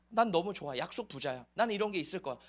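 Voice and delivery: smug mock contentment. Mocking complacent believers' words.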